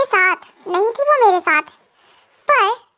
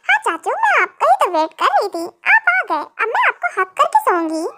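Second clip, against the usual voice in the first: put-on little girl voice; 2 semitones higher than usual. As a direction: play a cute small niece. Niece Minje voiced by same speaker.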